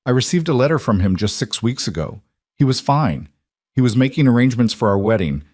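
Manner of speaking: words tumbling out in disbelief; rising panic. Acted. Shocked denial, rising fast.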